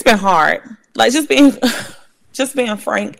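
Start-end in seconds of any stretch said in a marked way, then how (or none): 0.9-1.6 suddenly much higher, half-laughing start; the voice leaps up as the laugh begins; voice jumps up. Real, not acted. Candid admission breaks into laugh. 2.3-3.2 soft, much quieter laugh through the words; laughing softly. Real, not acted. Laughs while admitting it was hard.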